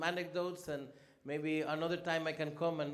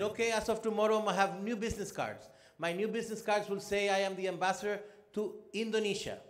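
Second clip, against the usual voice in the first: mock-serious, raised and louder; deadpan sarcasm to make a point; sarcastic retort; 4 semitones higher, 3 dB louder than usual. Ambassador tells protocol officer his new cards, sarcastic raised voice.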